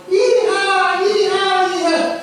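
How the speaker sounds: high, loud cowgirl whoop; cheering yee-haw. Retold or imitated. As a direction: whoop like excited riders. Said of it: "the two girls are going".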